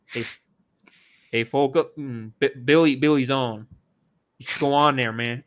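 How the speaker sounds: lightly voiced Jaguar imitation; a hint of Jaguar's particular accent; Jaguar impression. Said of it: "I'm gonna do my Jaguar impression".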